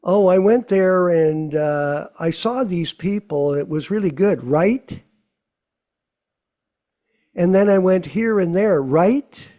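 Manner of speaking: mild mock chatter, each right? lifted up; lightly voiced self-absorbed talker fishing for agreement; imitating chatty people. Mocking people who want you to say right, lightly chatty. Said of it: "They, they talk like this".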